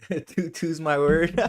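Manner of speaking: laughing Toronto slang; toronto slang accent. Retold or imitated. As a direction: imitate Toronto street talk, laughing. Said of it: "Toronto street interviews".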